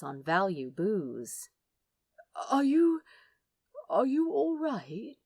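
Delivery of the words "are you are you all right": breathless higher hush of concern; anxious angel, whispering; worried whisper. Acted. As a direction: ask gently, barely voiced.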